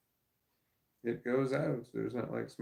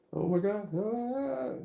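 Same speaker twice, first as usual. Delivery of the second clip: mock panic; 9 semitones higher, slower than usual. Acted friend freaking out.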